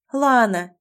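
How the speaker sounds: mildly placating address; conciliatory. Acted. Heroine begins to explain herself to Лана, mildly conciliatory. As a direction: start to smooth things over, gently pleading. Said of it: "примирительно начала я".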